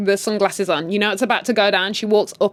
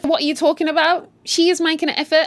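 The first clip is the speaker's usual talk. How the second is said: high, exasperated disbelief; incredulous viewer outcry; incredulous outburst; 6 semitones higher than usual. Pretend. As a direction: protest at the screen, voice up high. Reacting to scene as viewer.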